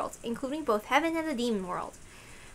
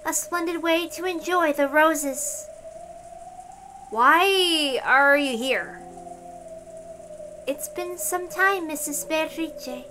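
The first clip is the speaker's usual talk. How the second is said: higher, slow, measured formal speech; a composed, courteous officer of heaven; formal knight Dalnor; 7 semitones higher, slower than usual. Acted. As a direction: speak each word with stately slowness. Dalnor voiced in read story.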